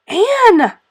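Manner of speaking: acted alarmed guardian; shocked exclamation. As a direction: call her up short, aghast. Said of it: "exclaimed Marilla in consternation".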